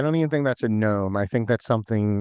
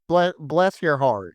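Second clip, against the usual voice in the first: put-on Southern accent; 4 semitones higher, slower than usual. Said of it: "That's like how people in the South say".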